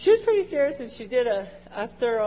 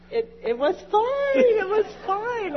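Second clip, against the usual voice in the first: voice breaking; 7 semitones higher than usual. Real, not acted. Emotional relief, voice breaking.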